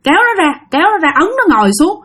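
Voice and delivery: lightly voiced exorcist; stern shaman. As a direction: order the spirit off. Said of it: "Ổng mới nói rằng á là".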